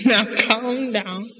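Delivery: slow, drawn-out soothing words; lightly acted father calming his wife; Papa calming Mama. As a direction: stretch it out to settle her down. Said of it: "What's he saying?".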